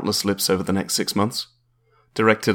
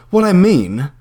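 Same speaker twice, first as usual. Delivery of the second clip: higher, slow, probing landlady voice; prim landlady; 9 semitones higher, 5 dB louder, slower than usual. Acted. Landlady quizzing a would-be tenant, higher and slow. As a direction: ask it slowly, sizing him up.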